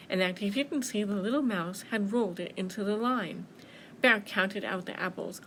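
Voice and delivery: lively picture-book reading; story narration. A narrator's reading. Children's librarian reading at Fall Story Time, animated storytelling. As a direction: read it expressively for small children.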